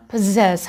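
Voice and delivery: پزز opening on a popped p; پزز as puh-ZESS with a burst on p; plosive p. Shown as a demonstration. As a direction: explode the first sound of پزز. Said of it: "حتما پ این حالت انفجاریه باید ایجاد".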